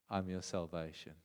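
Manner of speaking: soft, low, tender promise; gentle Jesus voice. Acted. Jesus telling Thomas softly he is his salvation. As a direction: speak it quietly, like Jesus comforting Thomas.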